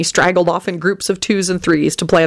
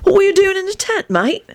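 casual. A narrator's reading. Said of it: "put in casually".

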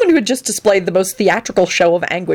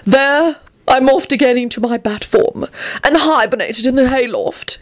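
high, self-important announcement; proud proclamation; 6 semitones higher than usual. Acted. Antonin smugly ends his bat tale, high proud proclamation. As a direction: proclaim it with theatrical pride. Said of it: "he proclaimed proudly".

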